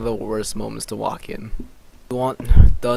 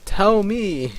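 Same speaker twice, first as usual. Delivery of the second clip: loud, high-pitched acted demand; eager demand; 9 semitones higher, 7 dB louder than usual. Character wanting the pillar's secrets, high loud demand. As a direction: exclaim it high and loud, hamming it up.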